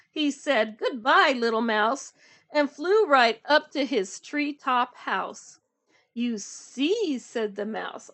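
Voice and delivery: animated storytime reading, lightly acted dialogue; picture book read-aloud. A narrator's reading. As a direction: read rhythmically to young children. Reads story with character voices.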